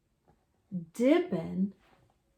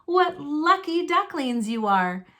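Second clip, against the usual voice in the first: fond mother duck; 5 semitones higher than usual. Acted. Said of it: "Mama Duck said".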